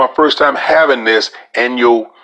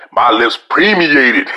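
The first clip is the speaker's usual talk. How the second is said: laughing through it; slower than usual. Shown as a demonstration. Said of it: "one of them big old words".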